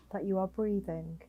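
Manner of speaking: slightly softened meditation voice with long pauses; guided meditation. Acted. Guiding a listener lying down to notice their breathing, calm meditation voice. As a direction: gently guide the listener into breath awareness, leaving space between phrases.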